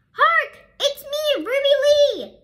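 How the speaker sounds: loud, high proud announcement; announcing. A narrator's reading. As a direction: herald it out to the whole class. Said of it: "she says".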